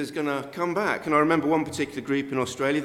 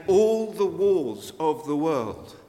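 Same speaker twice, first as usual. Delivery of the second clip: rising emphatic preaching; 3 semitones higher, 6 dB louder, slower than usual. Real, not acted. Preacher building to climax.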